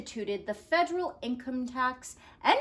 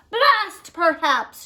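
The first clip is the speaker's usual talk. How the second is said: loud, slow, exasperated; shouted; 7 semitones higher, 10 dB louder, slower than usual. Acted. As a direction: drag out the curse, fed up. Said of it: "shouted Taft".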